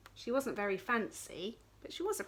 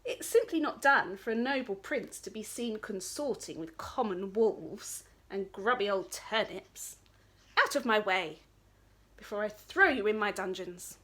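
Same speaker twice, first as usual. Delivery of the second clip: snobby prince. Acted. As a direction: lord it over them.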